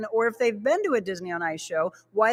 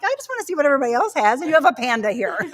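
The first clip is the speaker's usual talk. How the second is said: quick eager rush of words; fast mock indignant gush; excited retort; 5 semitones higher, faster than usual. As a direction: gush fast about the panda. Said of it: "I'm like".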